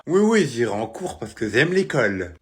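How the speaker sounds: loud lisped assent; tongue-tied, lisping reassurance. Acted. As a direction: agree eagerly through the lisp. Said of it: "Si, tu zozotes".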